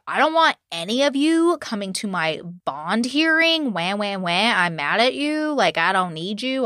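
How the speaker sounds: imitating a petulant sulk; mock pissy. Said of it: "gets all pissy some more".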